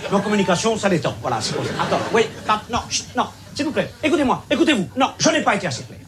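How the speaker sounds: high, loud, nervous laughter; strained shouting. Acted. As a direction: shout over the crowd. Expert now shouting over crowd. (crié, aigu et nerveux)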